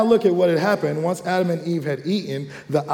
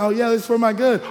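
tempted voice; 6 semitones higher, faster than usual. Retold or imitated. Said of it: "it makes it sound".

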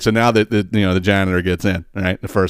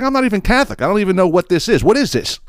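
panicked janitor; 10 semitones higher than usual. Acted. Janitor panics at priest's request.

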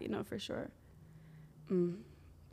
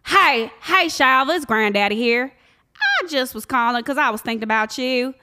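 granddad impression; 6 dB louder than usual. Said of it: "You heard him, M J".

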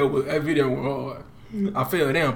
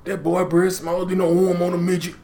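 slightly wrong copied voice; 2 semitones higher than usual. Retold or imitated. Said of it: "You do a good job mimicking his voice".

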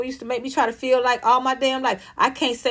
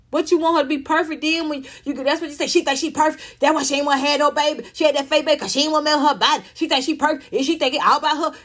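higher, rapid mock tirade; mocking gossip; 4 semitones higher, faster than usual. Mimicking critics picking at a woman, mocking. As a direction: rattle off the critics' complaints.

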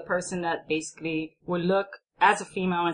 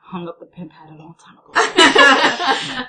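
laughing; 6 semitones higher, 11 dB louder, slower than usual. Real, not acted. Joking about her past.

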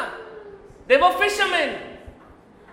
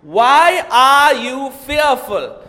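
Jesus rebuking; 3 dB louder, slower than usual. Acted. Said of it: "Look at the words that he used".

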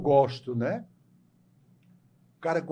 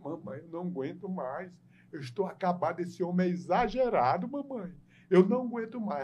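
mock crying daughter; 4 semitones higher than usual. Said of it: "a mulher começou a chorar".

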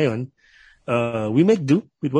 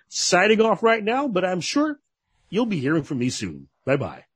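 radio DJ voice; 2 semitones higher than usual. Shown as a demonstration. DJ plugs socials and signs off for the hosts, radio voice. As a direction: sell it like a radio sign-off, pitch lifted on openings. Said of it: "and your radio voice po".

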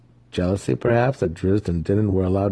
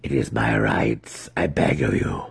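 pleading; 9 semitones lower than usual. A narrator's reading. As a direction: beg with a lowered voice. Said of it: "Alton whimpered".

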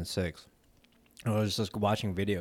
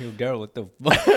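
calling out; 3 semitones higher, 7 dB louder, faster than usual. Pretend. Friends calling out to Daryl.

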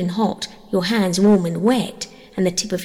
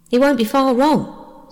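put-on slow, higher-pitched gloomy boy's line; 6 semitones higher, 3 dB louder, slower than usual. A narrator's reading. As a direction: grumble it gloomily, drawing it out. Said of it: "said Peter gloomily".

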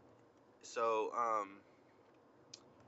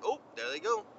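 excited; 12 semitones higher, 6 dB louder than usual. Retold or imitated. Watching the cop chase.

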